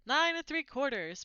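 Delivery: put-on high piping girl's voice; piped. A narrator's reading. Small girl piping the platform number to her mother. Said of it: "piped a small girl".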